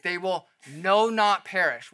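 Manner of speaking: "no not" said slowly and loudly; stress on NO NOT. Shown as a demonstration. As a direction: hit both negatives in "no not", stretched out. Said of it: "It's a double negative".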